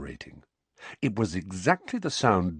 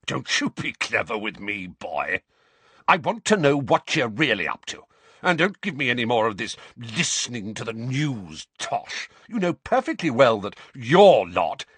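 Uncle Vernon voice; 4 semitones higher, 4 dB louder than usual. A narrator's reading. Vernon threatening Harry.

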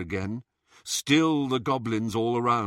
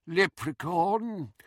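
slow, high goblin sneer; nasty nasal goblin sneer; 7 semitones higher, slower than usual. A narrator's reading. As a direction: spit the word out like a dismissive goblin. Old goblin tossing aside a coin.

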